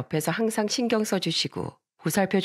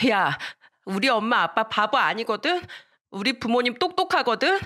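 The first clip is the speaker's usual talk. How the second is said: acted child's indignant comeback, pitched higher; angry retort; 5 semitones higher than usual. Little girl defends her parents to the boy, mildly angry acted yell. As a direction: talk back like an offended little girl. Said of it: "너무 화가 나서 저를 놀렸던 남자애한테 소리쳤습니다".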